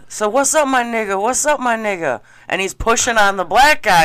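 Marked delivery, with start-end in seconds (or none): 0.1-2.2 higher mocking wannabe voice; mock wannabe greeting. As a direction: mimic his pushy greeting, pitched up. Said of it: "so the guy's like".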